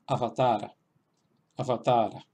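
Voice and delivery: "avatar" said slowly in Sanskrit, long final a; sanskrit word. Shown as a demonstration. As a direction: say "avatar" syllable by syllable, Sanskrit style. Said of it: "las voy a repetir dos veces". (pronunciación sánscrita de "avatar")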